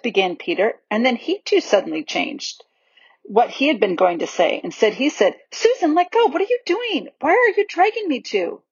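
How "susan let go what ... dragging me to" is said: breathless fright. Acted. Peter pulled by unseen magic.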